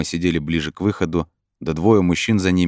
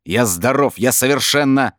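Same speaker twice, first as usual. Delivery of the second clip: louder, high and insistent; agitated protest; 7 semitones higher, 4 dB louder than usual. A narrator's reading. Brin protests his sanity to the voice, agitated.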